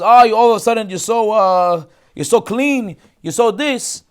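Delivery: high, loud sneering jab; mock sarcasm. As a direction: sneer at their sudden innocence. Yosef mocking the brothers.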